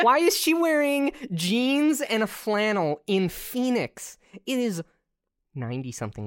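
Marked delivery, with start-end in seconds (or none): 0.0-4.8 high, drawn-out incredulous question; baffled, high-pitched protest. Real, not acted. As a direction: demand an explanation, pitched way up. Incredulous about a movie costume.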